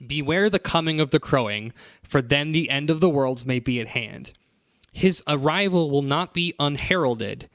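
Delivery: solemn prophecy reading; scripture reading. Shown as a demonstration. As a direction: intone it like an ominous prophecy. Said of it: "so the next passage".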